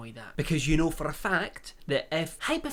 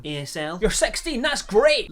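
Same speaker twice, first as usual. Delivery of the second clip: mock excited creep; 6 semitones higher, 8 dB louder than usual. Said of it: "Paul Breach is definitely on Amigo going".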